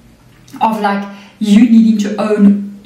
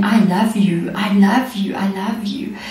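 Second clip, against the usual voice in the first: gently; 5 dB quieter than usual. Retold or imitated. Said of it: "when he was saying".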